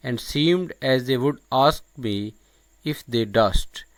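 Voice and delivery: slow, emphatic verse reading; poem recitation. Acted. Lecturer quoting the Duke's monologue, slow deliberate recitation. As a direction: recite it deliberately, pausing between phrases.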